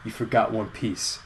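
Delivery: quiet, deliberate one-liner with pauses; understated cheesy payoff line; cheesy movie line. Acted. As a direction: deliver it low-key, letting each phrase hang. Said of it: "And then she says".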